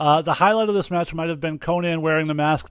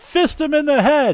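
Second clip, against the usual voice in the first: slow, very high, drawn-out yelling, acted out; 10 semitones higher, 4 dB louder than usual. Recapping a wrestling match, the speaker quotes the commentary, retelling Dusty Rhodes yelling. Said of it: "Dusty Rhodes on commentary just yelling".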